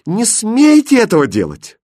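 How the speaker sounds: high, loud, urgent command; desperate shout. Acted. Princess grabbing the king's arm, desperate shout. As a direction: forbid him with everything you have. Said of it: "отчаянно крикнула".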